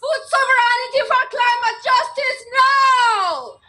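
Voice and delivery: shouted protest slogan; rally cry. Real, not acted. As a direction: shout it to the crowd. Rally speaker chanting demand.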